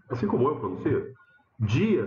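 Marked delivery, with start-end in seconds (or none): 1.6-2.1 "dia" opening on a j sound, as in jeep; pronúncia paulista. Shown as a demonstration. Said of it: "você pronuncia alguma coisa do tipo". ("dia" com som de dj)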